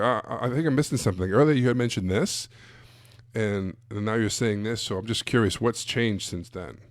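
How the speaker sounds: puzzled and curious, gently probing; confused approach. Shown as a demonstration. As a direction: play it as if you lost the thread. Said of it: "a confused approach".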